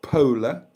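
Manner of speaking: "pola" said slowly as POH-luh, rising; wrong name attempt. Shown as a demonstration. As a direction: punch "pola" loudly as two syllables. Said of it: "It's not".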